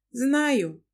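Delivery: taken aback, she scolds him; wife Lana. Acted. Narrator voices the wife Lana.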